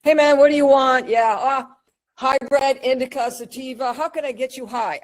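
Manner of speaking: mock a too-familiar shop clerk; disrespectful budtender. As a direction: imitate an offhand, disrespectful budtender. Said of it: "they tend to be disrespectful".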